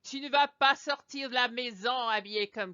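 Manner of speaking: a hint of a shocked parent, loud start; mock-outraged mom; lightly voiced mother forbidding her daughter to go out; scolding mother. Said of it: "I would say to this girl".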